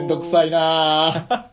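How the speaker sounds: drawn-out, slow grumble; mock reluctance. Real, not acted. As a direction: groan it out as a playful complaint. Playfully grumbles at cake request.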